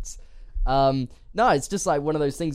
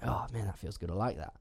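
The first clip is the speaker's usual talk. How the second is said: contented sigh; 4 semitones lower, 10 dB quieter than usual. Retold or imitated. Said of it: "I'm like".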